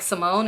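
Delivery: "Simone" softly lifted at the end; short, tentative rising "Simone"; unsure of own name. Retold or imitated. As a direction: offer "Simone" as if asking. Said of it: "I said it like I was unsure".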